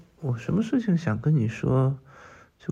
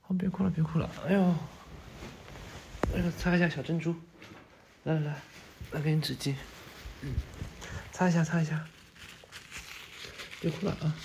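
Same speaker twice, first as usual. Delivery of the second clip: higher-pitched, cooing comfort; fussing softly, pitched up; gentle coaxing; 4 semitones higher, 3 dB quieter than usual. Acted. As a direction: coax a crying sweetheart to dry their tears. Soothing a crying partner, offering tissues.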